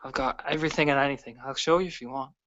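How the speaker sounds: bright and eager; big smile. Acted. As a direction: smile through the offer. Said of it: "has a big smile on her face".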